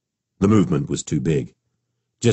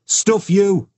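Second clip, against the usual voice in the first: cheeky call. A narrator's reading. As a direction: yell back with glee. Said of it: "Will called out happily".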